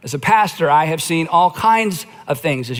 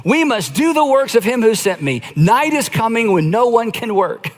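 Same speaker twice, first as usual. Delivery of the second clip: Jesus speaking; 3 semitones higher than usual. Retold or imitated. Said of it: "he says".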